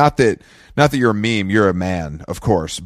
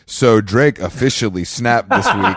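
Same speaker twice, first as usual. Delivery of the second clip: slow, flat news read; deadpan newsreader; slower than usual. Retold or imitated. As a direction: read it like a bored host. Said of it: "repeats the prompter line".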